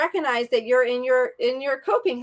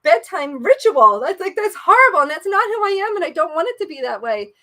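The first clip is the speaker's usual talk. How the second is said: loud, higher exasperated inner voice; dismayed self-talk; 3 semitones higher, 6 dB louder than usual. Retold or imitated. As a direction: scold yourself aloud in disgust. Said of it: "And I'm like".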